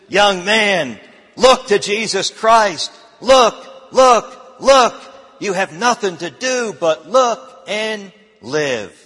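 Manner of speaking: loud, high preacher's shout on look, look, look. Acted. A Methodist preacher shouting at young Spurgeon to look. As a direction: shout it from the pulpit as a Methodist would. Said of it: "he shouted".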